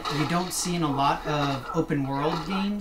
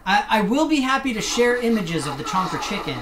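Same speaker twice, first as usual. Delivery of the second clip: laughing; 6 semitones higher, 5 dB louder, faster than usual. Real, not acted. Laughs while promising images.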